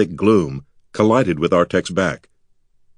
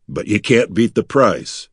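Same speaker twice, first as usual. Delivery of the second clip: dry. Acted. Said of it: "Artek replied dryly".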